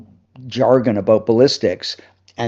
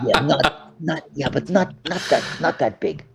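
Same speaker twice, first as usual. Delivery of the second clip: quiet letdown; 3 semitones higher, 6 dB quieter than usual. Retold or imitated. Repeats the director's quiet letdown.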